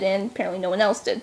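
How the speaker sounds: quick, low aside; talking fast. Real, not acted. Vlogger hurrying through a book recap, talking fast. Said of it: "I'm talking fast".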